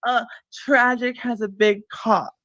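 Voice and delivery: drawn out slowly, grudging; slow forced confession. Pretend. Says the line on command, slowly and reluctantly. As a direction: spell it out slowly like a dare. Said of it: "All right, then say it".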